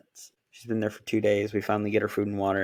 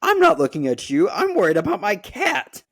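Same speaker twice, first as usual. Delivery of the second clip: retold exasperation; 10 semitones higher, 7 dB louder than usual. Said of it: "And I'm like".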